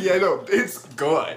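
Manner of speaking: slow, laughing it's-all-good delivery; mock nonchalance. Host imitating the captain shrugging it off, nonchalant. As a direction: drag it out as if unbothered, amused. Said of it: "like it's totally fine".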